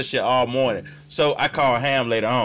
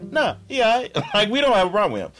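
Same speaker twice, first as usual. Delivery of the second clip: laughing mock quote; 5 semitones higher, faster than usual. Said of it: "niggas was like".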